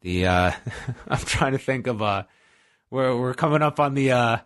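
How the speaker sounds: ordinary delivery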